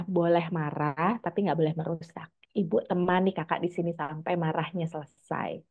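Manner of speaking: put-on calm the child softly but leave no doubt; gentle and firm. Shown as a demonstration. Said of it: "disampaikan dengan lembut dan tegas".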